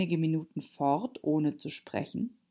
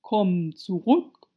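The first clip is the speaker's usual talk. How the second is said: slow, loud, drawn-out call; calling after; 3 semitones higher, 5 dB louder, slower than usual. A narrator's reading. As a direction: call someone back unhurriedly. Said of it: "rief die Raupe ihr hinterher".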